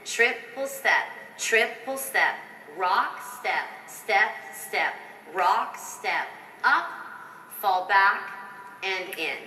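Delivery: rhythmic call of step names. Shown as a demonstration. Choreographer calling the steps for the dancers. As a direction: call each step in time. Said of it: "Let's just do the very first one".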